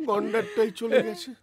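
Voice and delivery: words squeezed out through laughter; real laughter through the words; laughing. Real, not acted. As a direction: still laughing, repeat the punchline. Repeats punchline laughing.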